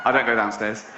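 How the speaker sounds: a lightly voiced stubborn cow. Cow refusing.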